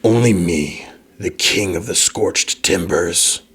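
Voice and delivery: slow, haughty undead king. Acted. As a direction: draw it out like a menacing ruler. GM voices the king.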